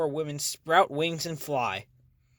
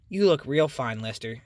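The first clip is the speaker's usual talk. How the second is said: beaming compliment. Acted.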